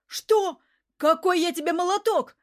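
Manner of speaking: high, loud indignant retort; getting heated. A narrator's reading. Man flaring up at being called a nickname, loud and indignant. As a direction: flare up at the insult. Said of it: "Мерзляков тоже начал заводиться".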